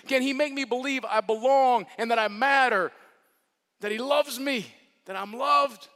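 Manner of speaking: rising, pleading voice of the doubting; pleading questions. Pretend. Sisters at the funeral wondering, pleading. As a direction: ask it like someone who has lost hope. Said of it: "they're wondering".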